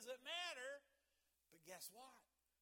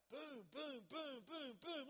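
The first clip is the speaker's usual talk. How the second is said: excited booms; 5 semitones higher, 6 dB louder, slower than usual. Acted. Imagines instant church growth.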